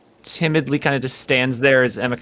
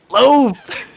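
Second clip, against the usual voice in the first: much higher, louder call of a name; excited shout; 11 semitones higher, 7 dB louder than usual. Acted. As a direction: fling the name out like a happy discovery. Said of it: "looks back around and goes".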